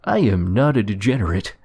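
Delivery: lightly voiced pompous principal. Principal's speech retold.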